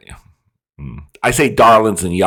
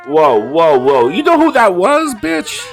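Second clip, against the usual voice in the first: loud, very high excited disbelief; real astonished outburst; 13 semitones higher, 7 dB louder than usual. Real, not acted. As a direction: cry it out high, climbing to a squeal on the question. Startled at recognising an actor.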